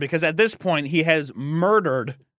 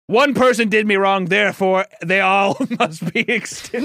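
mock villain proclaiming; mock vengeful; 3 semitones higher, 4 dB louder than usual. Mocking friend's revenge logic, louder mock decree. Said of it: "It's like".

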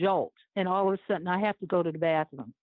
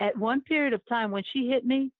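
ordinary talk

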